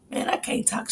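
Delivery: barely voiced whisper; hoarse-free whisper of someone who lost their voice; whispering, losing voice. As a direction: whisper it like your voice is gone. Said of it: "I can't even talk".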